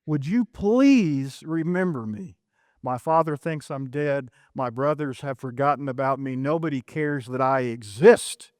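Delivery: forgotten, pleading. Acted. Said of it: "a young man who feels forgotten".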